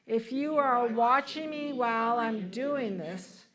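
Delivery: measured, deliberate affirmation in phrases; leading group recitation. Shown as a demonstration. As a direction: lead the congregation through it phrase by phrase. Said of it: "Why don't you say this with me".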